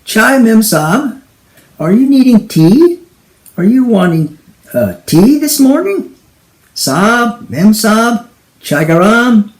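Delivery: put-on high, loud Indian accent calling chai; Indian tea seller. Indian tea seller calling through the door, Indian accent. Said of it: "it's the teawala".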